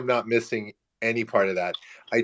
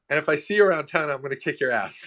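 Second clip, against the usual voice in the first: retold threat; 5 semitones higher, faster than usual. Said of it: "I was yelling off the top of my lung".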